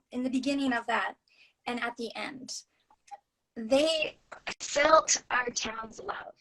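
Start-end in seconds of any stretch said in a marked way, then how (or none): 3.6-6.3 slow, breathy near-whisper; hushed and moved. Real, not acted. Author remembering the parade kids, slow hushed whisper. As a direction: let the last words fall to an awed hush. Emotional climax of the parade story.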